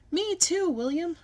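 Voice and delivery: high excited holler; loud, high child's holler. A narrator's reading. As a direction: shout it out eagerly. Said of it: "I hollered".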